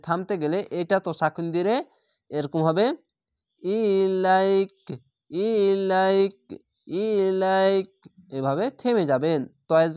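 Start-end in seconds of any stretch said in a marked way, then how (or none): 3.6-4.8 ইলাইক with the long a held, then stop; stretched pause. Shown as a demonstration. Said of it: "এক আলিফ টেনে থেমে যাবেন". 5.3-6.4 ইলাইক with the long a held, then stop; stretched pause. Shown as a demonstration. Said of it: "এক আলিফ টেনে থেমে যাবেন".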